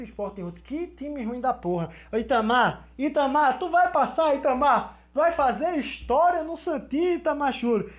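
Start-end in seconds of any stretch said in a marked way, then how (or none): 2.1-7.9 calling out. Acted. Calling out to the player.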